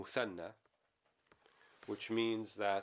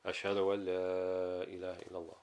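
the shahada raised louder for the second round; much faster than usual. Shown as a demonstration. Teacher demonstrating tarji'a to students, now louder. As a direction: lift the voice for the repeat. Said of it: "Then in a louder voice".

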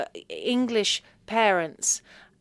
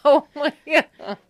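slow, higher, louder drawn-out exasperation; exasperated; 7 semitones higher, 9 dB louder, slower than usual. Retold or imitated. Daughter reacting to her mum, slow and exasperated. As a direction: stretch it out in disbelief. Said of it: "I'm like".

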